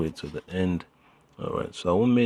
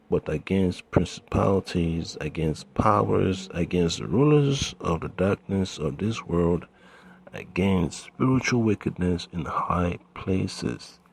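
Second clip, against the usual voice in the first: scripture reading. Acted. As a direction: weigh each phrase of the verse. Reads scripture aloud.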